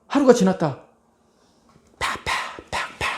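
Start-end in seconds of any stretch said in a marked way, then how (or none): 2.0-3.1 breathy whispered pa pa pa; whispered salt sprinkles. Retold or imitated. Salting sounds whispered. (속삭이는 파 파 파)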